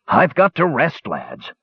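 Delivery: tired dwarf gasping for air; out of breath. A narrator's reading.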